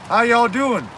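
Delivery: high, lilting cartoon character voice; Chef. School cook checking on the children, high impression. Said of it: "Hey, Chef".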